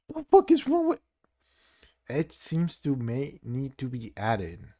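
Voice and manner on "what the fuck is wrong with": very high, loud, strained scream of rage; raging shriek. Real, not acted. Gamer screaming at broken seams, high furious shriek. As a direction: screech your fury at the screen.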